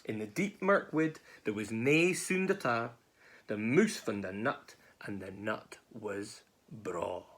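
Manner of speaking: slowing, settling storybook ending; story narration. A narrator's reading. Narrator ending with mouse and nut, slowing storytelling. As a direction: bring the tale gently to a close.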